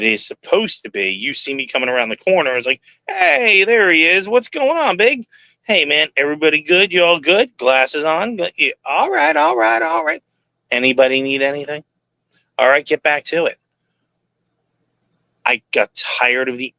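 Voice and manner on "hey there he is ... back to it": high, bright-voiced hearty greeting to workers; breezy boss making the rounds, pitched way up; cheery safety guy. Safety manager greeting the plant floor workers, hearty and much higher.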